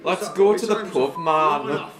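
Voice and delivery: put-on northern accent. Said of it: "my northern accent".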